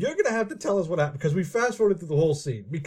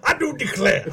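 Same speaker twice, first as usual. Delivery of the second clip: mock Southern accent; 4 semitones higher than usual. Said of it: "that southern accent that we do".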